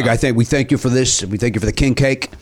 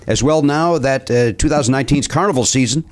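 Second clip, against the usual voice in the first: put-on Cajun accent. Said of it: "you're still doing the accent".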